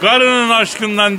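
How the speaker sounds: slow, high Tokat drawl; Tokat accent. Retold or imitated. Brutus explains Caesar's love in a slow, high Tokat accent. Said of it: "Tokat şivesini kapmış".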